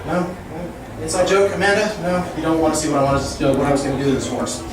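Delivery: rapid absurd wordplay rant, building; escalating comedy rant. Acted. Roast-style free-association rant.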